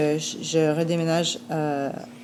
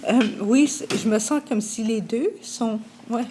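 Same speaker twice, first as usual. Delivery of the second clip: holding back tears; 5 semitones higher than usual. Real, not acted. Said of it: "ça va me faire pleurer".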